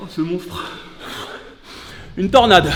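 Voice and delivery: high, loud amazed cry; excited exclamation. Real, not acted. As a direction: shout it out in awe. Exclaims at the fighter.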